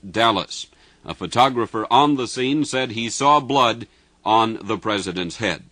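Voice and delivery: repeated bulletin, steady and grave; urgent news bulletin. Real, not acted.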